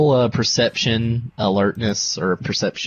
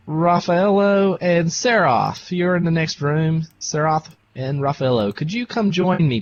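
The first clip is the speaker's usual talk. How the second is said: raised-pitch call to the next room; 6 semitones higher than usual. Acted. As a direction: summon companions from next door. Calling companions in next room.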